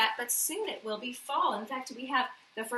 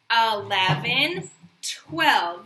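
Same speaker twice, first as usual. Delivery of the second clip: Eleven, twelve called out slow and louder; counting aloud; 2 semitones lower, 7 dB louder, much slower than usual. Shown as a demonstration. Teacher counting on with the class, slow and loud. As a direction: count on slowly and clearly. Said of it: "let's count to twelve the big kid way".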